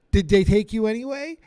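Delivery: drill sergeant interrogating. Retold or imitated. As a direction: grill him like an angry drill sergeant.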